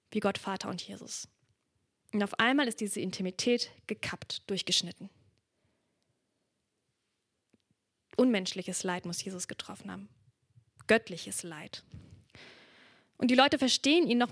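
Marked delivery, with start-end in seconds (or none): 2.1-11.8 whisper. Acted. Preacher tells the congregation the bond is cut, whispering. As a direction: drop to a whisper to draw them in. Preacher describes God abandoning Jesus.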